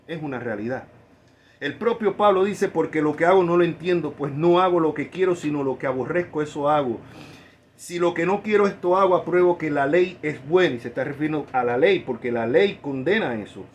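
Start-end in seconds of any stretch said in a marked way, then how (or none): 2.7-10.8 scripture reading. Acted. Reads Pablo's words aloud.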